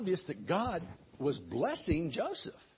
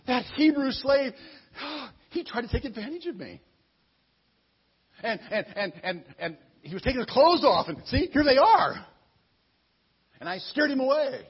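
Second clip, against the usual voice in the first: fake victim; 5 semitones higher, 5 dB louder than usual. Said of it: "She says".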